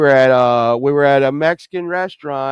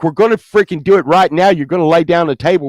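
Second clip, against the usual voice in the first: urgent insistence; 3 semitones higher, 5 dB louder than usual. Retold or imitated. Acted doctor insisting on urgent surgery.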